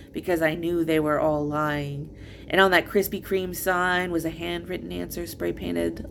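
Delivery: measured, earnest spoken-word delivery; poetry reading. Acted. Poet reading first book to listeners, earnest recital. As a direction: read it as a personal poem, line by line. Reads own poems aloud.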